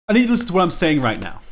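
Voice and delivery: fast, rushed repeat. Shown as a demonstration. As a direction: rattle it off quickly.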